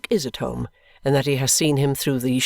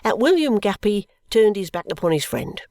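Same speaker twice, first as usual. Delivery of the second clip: pompous, high emphasis; emphatic; 6 semitones higher than usual. Acted. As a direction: declare it as a solemn vow. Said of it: "Mister Guppy adds with emphasis".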